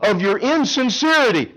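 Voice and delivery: slow, a hint of a stern God; lightly voiced disappointed God. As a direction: let God sound weary of fake worship.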